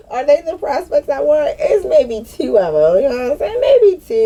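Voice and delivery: high-pitched, talking through leftover laughter; laughing. Real, not acted. Answering her own prospects question, laughing through it. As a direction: get it out while still cracking up.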